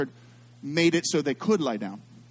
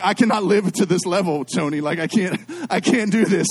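mock awe; 4 semitones higher, 8 dB louder than usual. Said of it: "I'm like".

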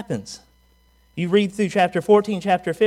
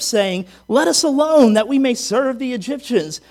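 raised, higher-pitched reading of a protest; crying out; 6 semitones higher, 5 dB louder than usual. A narrator's reading. Israelites cry out to Moses at the sea, crying out. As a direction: read it as a people crying out in complaint. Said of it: "cried out unto the Lord".

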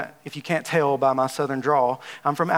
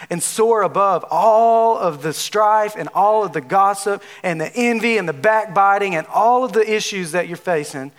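rising preaching; 3 semitones higher, 3 dB louder than usual. Acted. Sermon climax exhortation.

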